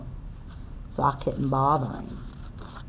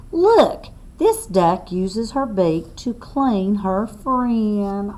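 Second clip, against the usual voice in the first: put-on reading to children; 2 semitones higher, slower than usual. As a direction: spell it out clearly for little listeners. Reads book text aloud.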